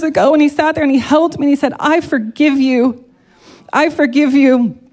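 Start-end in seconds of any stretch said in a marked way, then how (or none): 1.8-4.8 slow tender forgiveness. Retold or imitated. Husband repeats forgiveness, slow.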